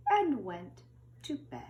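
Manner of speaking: hushed bedtime whisper; soft unvoiced whisper. A narrator's reading. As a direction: whisper it like the kids are asleep. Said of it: "bedtime whisper line".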